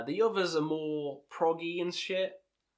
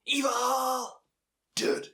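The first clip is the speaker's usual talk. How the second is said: shouted title; 10 semitones higher, 3 dB louder, much slower than usual. Acted. Shouting song titles, growl-like.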